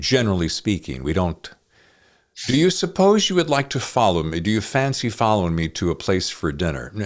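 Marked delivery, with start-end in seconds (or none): 2.5-6.9 stilted formal dialogue. Retold or imitated. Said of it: "we tend to speak in a shorthand".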